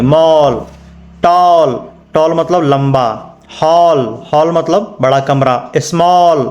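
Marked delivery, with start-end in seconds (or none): 0.0-0.6 "मॉल" stretched long on the ऑ; drawn-out vowel. Shown as a demonstration. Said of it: "थोड़ा घींच के बोलेंगे". 5.8-6.4 "स्मॉल" with a drawn-out rounded ऑ; long ऑ vowel. Shown as a demonstration. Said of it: "स्मॉल नहीं पढ़ेंगे".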